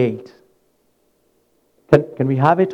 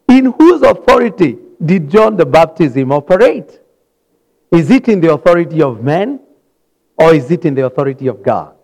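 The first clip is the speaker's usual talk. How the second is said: Jesus presses the question, louder and quicker; challenging question; 4 dB louder than usual. Acted. Preacher as Jesus, pressing the priests with a loud quick question. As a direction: lean in and corner them with it.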